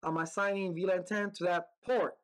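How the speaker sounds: port hit hardest at the end; emphasis on port; stress on port. Shown as a demonstration. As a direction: lean on the final word port. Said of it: "I'm emphasizing port".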